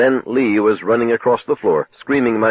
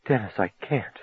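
terrified; 10 dB quieter than usual. Acted. Lee terrified, refusing.

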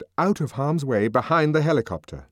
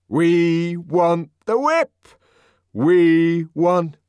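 loud refrain; 9 semitones higher, 8 dB louder, much slower than usual. A narrator's reading. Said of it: "reiterated refrain".

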